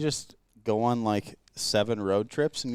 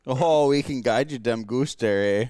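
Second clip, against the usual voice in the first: a light mock Wisconsin accent, slow. Buddies joking about Wisconsin, lightly hammed-up Wisconsin accent. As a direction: tease like a Wisconsin local, slowly. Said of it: "starting to lose his own Wisconsin accent".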